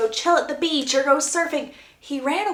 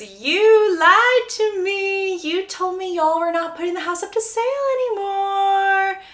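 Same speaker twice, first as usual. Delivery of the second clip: mock indignant agent; 9 semitones higher than usual. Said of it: "The agent looks at Conrad and goes".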